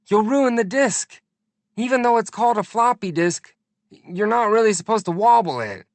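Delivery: high, loud, urgent warning; frantic plea. A narrator's reading. Pleading with the old lady to stop wobbling the disk. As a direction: beg her to stop wobbling it.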